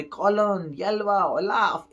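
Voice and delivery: high, drawn-out imitated hollering; distant shouted calls. Giants come calling for their children, shouting. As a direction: stretch each name as if calling from afar. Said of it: "giant चिल्लाते हुए आते".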